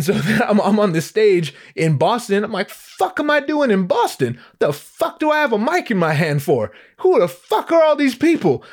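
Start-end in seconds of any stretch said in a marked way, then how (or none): 2.7-8.6 high-pitched, incredulous acted freak-out; bewildered inner outburst, played for laughs; mock panic. Performer frozen on a Boston stage, comically panicked.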